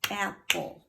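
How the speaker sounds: "apple" in two beats, ap-ple; "apple" broken evenly in two; clapped syllables. Shown as a demonstration. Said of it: "clap it".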